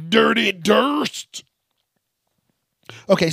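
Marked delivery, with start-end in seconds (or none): 0.1-1.4 playful. Real, not acted. Repeat higher, slow.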